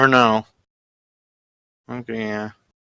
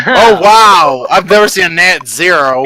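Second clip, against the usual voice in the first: real helpless laughter; 3 dB louder, slower than usual. Real, not acted. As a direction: crack up while crying out in mock dismay. Game master reacts to natural zero.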